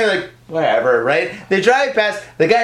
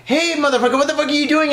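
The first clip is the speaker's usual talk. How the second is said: retold yell, pitched up high; hammed-up angry shout at a thief; 8 semitones higher than usual. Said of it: "I start talking all this shit".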